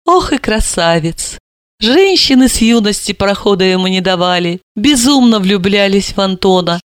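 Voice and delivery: proud. Acted. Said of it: "с гордостью заключила".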